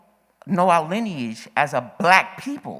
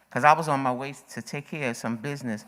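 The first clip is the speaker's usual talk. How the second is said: slightly winded speech; out of breath; 3 semitones lower, 3 dB quieter, faster than usual. Real, not acted. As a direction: talk a little out of breath. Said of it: "I'm a little out of breath".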